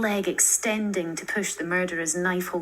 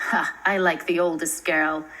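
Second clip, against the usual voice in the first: put-on louder, gloating old man's voice; a hint of a menacing old killer; leering villain; 5 dB louder than usual. Old killer choosing Kiko as prey, leering.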